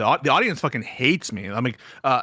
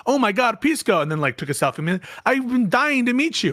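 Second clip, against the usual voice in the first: 1 quoting Gavin; 8 semitones higher than usual. Retold or imitated. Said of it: "He's like".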